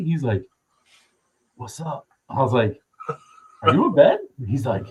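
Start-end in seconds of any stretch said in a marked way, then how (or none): 1.6-2.1 soft, higher half-asleep mumble; imitating groggy friend. Friend caught asleep answers the airport call, groggy. Voicing friend woken in bed. 3.6-4.2 high, louder incredulous question; retold disbelief. Calling a friend before boarding the plane, incredulous. Retelling his disbelief on phone.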